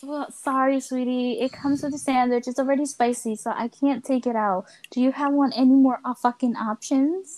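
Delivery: mock-sweet service voice with a sting at the end; customer service voice. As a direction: fake politeness to a fussy customer. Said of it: "gotta get my customer service".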